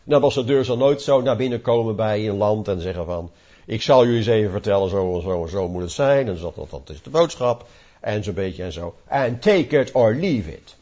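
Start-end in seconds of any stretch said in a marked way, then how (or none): 3.7-10.8 arrogant lecturing. Retold or imitated. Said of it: "dat is niet de juiste houding".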